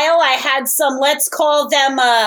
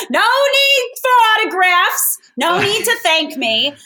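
grand diva entrance; 5 semitones higher than usual. Acted. Player in diva character.

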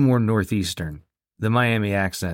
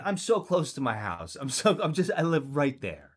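softer mock begging, slightly raised; pleading drunk driver; 3 semitones higher, 5 dB quieter than usual. Driver begging a cop as home is close, meek mock plea. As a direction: bargain meekly with the officer.

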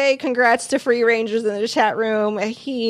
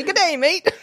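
laughing, hammed-up Australian greeting, pitched up; mock Australian accent; 6 semitones higher than usual. Host mocks his own slip into Australian, laughing Australian accent. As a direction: play the Aussie cliché for laughs. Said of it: "that's Australian".

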